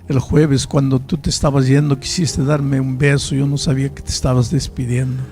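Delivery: weeping father. Retold or imitated. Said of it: "comenzó a llorar".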